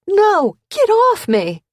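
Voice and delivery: a high, loud cry of "Stop!"; yelled. A narrator's reading. Gabby yelling at an attacker, loud high shout. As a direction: scream it out in struggle.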